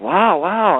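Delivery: retold excited astonishment. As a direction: imitate someone thrilled and amazed. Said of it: "very excited".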